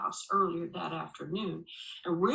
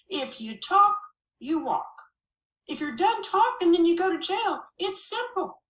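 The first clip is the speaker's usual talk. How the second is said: higher and louder, rising stern threat; stern ultimatum; 8 semitones higher, 6 dB louder than usual. Acted. Sheriff warning the girl she's going to jail, stern and loud. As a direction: lay down the law, building hard.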